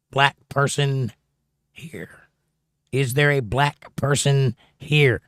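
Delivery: "black person here" slowly, broken into separate pieces; shifted emphasis. Shown as a demonstration. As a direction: sound out "black person here", pausing to test the stress. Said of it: "put the syllable on the wrong emphasis".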